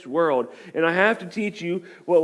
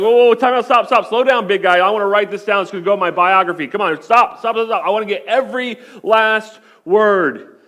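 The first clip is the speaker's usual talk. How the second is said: mock eager kid; 3 semitones higher, 4 dB louder than usual. Imagined eager kid, mocked.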